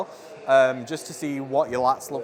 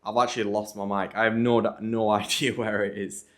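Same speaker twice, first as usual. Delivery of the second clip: muffled, like through a hand; muffled voice, lost mic; 5 semitones lower than usual. Real, not acted. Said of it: "apologies if the sound seems a bit muffled".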